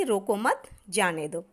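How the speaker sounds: group रोको मत, then let जाने दो fall; pause after मत. Shown as a demonstration. Teacher explains the second meaning, grouping रोको मत before the break. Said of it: "मतलब दूसरा निकल रहा है".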